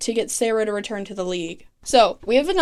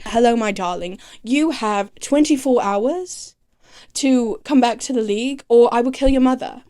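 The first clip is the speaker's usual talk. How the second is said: lightly put-on menacing villain voice, slowed on the threat; a half-hearted try at a sinister caller; badly faked villain phone threat; mock Nyssa voice. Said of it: "Nyssa does not sound like that".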